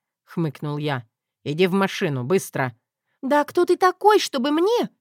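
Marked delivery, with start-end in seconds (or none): 1.4-2.8 lower, curt order; low commanding husband. Acted. 3.2-4.9 much higher, louder indignant cry; how dare you, shrill protest; outraged Zoya. Acted.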